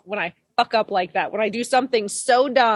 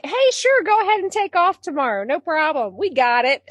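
breezy reassurance; 4 semitones higher than usual. Retold or imitated.

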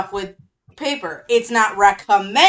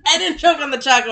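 fast, laughing through the words; giggling denial; 4 semitones higher, faster than usual. Real, not acted. Laughing after a choke.

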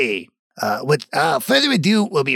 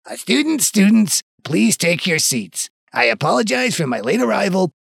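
a light goblin teacher voice; goblin professor voice; 2 semitones higher than usual. Acted. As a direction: play the goblin professor addressing class. Goblin professor addresses class.

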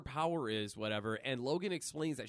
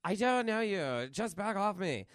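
higher and louder, brushing him off; tough girl warning; 6 semitones higher, 3 dB louder than usual. Retold or imitated. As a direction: warn him off, fast at the end. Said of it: "she's like".

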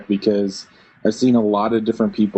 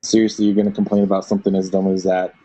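elitist scoff; faster than usual. Retold or imitated. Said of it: "I have a whole elitist ... kind of spiel".

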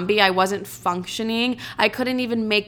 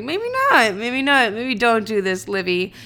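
inner voice; 2 semitones higher than usual. Retold or imitated. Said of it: "and I was like".

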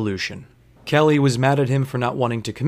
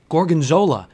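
loud, rising exasperated questions; incredulous and fed up, pitch climbing; fed-up bartender demanding answers; 5 semitones higher, 5 dB louder than usual. Retold or imitated. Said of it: "and I was like".

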